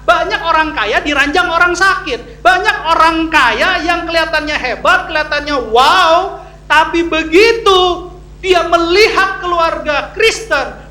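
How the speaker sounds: emphatic preacher, key words drawn out; preaching at full force. Real, not acted. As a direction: proclaim it to the congregation, building to a loud finish.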